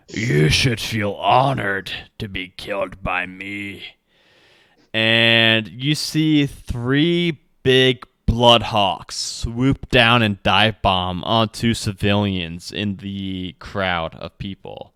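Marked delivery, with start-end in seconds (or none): 0.1-3.8 grand, imperious, menacing villain voice. A figure looks over the battlefield and speaks out to the crowd, booming voice. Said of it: "his voice is kind of boomed out".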